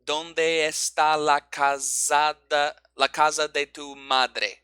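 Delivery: slow, even Spanish beats; every syllable the same length and weight; syllable-timed Spanish. Shown as a demonstration. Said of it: "languages like Spanish".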